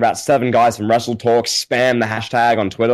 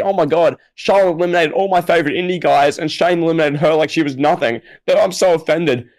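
higher, whiny mock-offended fan voice; mock outrage; 4 semitones higher than usual. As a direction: parody an over-sensitive online fan. Mocking outraged wrestling fans.

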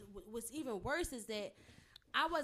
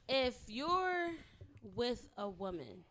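sexy voice; 2 semitones lower, 3 dB quieter than usual. Acted. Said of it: "You trying to say sexy voice wrong".

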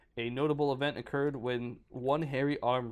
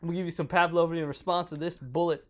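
mock threat; 4 semitones higher, 5 dB louder than usual. Prospector threatening creature.

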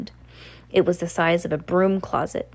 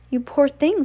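higher-pitched, louder pity, read in character; lightly acted girl's sympathy; sympathetic; 9 semitones higher, 5 dB louder than usual. A narrator's reading. Coraline to the trapped children, sympathetic.

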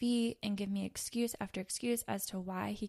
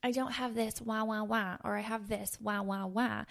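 mock baby whine. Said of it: "This baby mentality of these excuses".

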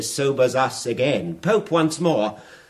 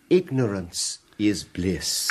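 serene; 5 semitones lower, slower than usual. Retold or imitated. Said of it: "I replied with rare serenity".

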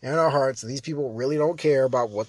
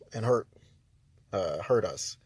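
whispered; 6 semitones lower, 6 dB quieter than usual. Real, not acted. Trailing off.

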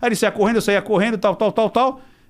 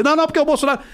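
mock heated objection; 8 semitones higher, much faster than usual. Mimics Arthur's heated reply.

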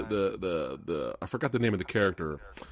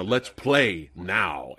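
quoting Hugh Grant; 3 semitones lower, much slower than usual. Retold or imitated. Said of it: "he said that".

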